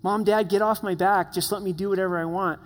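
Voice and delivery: lightly voiced teen protest to parents; a hint of a teenager pleading to be left alone; complaining teenager. Teenager telling parents to back off, lightly acted complaint. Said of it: "that's what they'll tell you".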